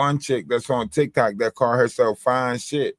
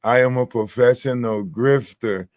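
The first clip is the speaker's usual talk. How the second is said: careful, measured mock pronouncement; imitating TikTok woman. Showing how the TikTok woman says it, deliberate imitation. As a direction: imitate her, setting each word apart. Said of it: "That's how she say it. Like".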